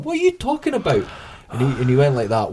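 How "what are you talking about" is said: much higher voice for the female manager; imitating the manager. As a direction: lightly mimic the manager, pitched way up. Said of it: "she's going".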